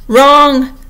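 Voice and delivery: high, loud crow of triumph; triumphant. A narrator's reading. Humpty Dumpty catching Alice out, triumphantly. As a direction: pounce on the mistake and ring it out. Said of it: "exclaimed triumphantly".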